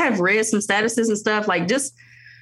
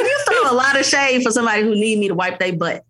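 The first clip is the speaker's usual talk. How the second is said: higher and laughing through it; laughing mom roast; 3 semitones higher than usual. Retold or imitated. Mom teasing her toddler, laughing roast. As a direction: roast your toddler while cracking up.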